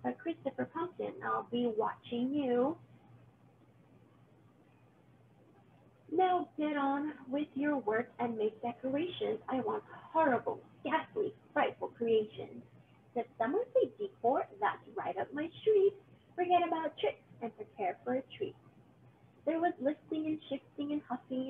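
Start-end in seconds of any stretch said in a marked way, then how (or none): 0.0-12.6 bossy witch. Acted. Witch ordering Christopher to work, bossy and menacing. 13.2-18.5 higher, gleeful pumpkin voice; delighted pumpkin. Acted. Christopher answering the witch about decorations, gleeful and high.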